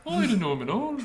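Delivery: put-on high teenage girl voice redone; teen shop clerk. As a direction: back to the girl's voice. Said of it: "It started sounding like a musician there"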